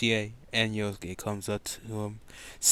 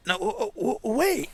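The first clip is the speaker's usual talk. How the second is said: high, stammering plea to stop; flustered squeal while being dragged off; panicked protest; 13 semitones higher than usual. Acted.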